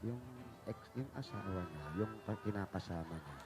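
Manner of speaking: low, hushed, secretive murmur; mock whisper. Host relaying the contestant's secret to the boss, mock whisper. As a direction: pass it on softly like confidential gossip. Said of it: "Ibubulong mo rin ba?".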